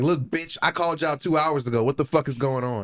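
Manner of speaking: mock irate caller. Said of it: "sometimes you gotta be like".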